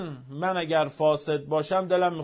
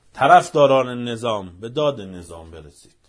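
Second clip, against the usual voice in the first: calling out; 3 semitones lower, 5 dB louder than usual. Real, not acted. Preacher calling out to supporters.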